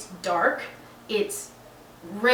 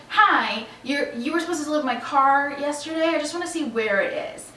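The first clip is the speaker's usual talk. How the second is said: higher, louder, retold polite phone opener; polite phone inquiry; 5 semitones higher, 4 dB louder than usual. Customer calling to ask where her car is, politely. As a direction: imitate yourself making a polite inquiry, pitched up.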